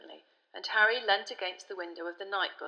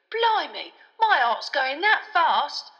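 shaken; 8 semitones higher, 10 dB louder, slower than usual. A narrator's reading. Stan shaken after hearing forbidden name.

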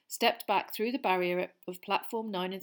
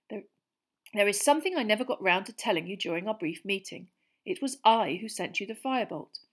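a steady, louder letter voice for Sirius; letter read in Sirius's voice; 6 dB louder than usual. Acted. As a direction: read it as the godfather writing.

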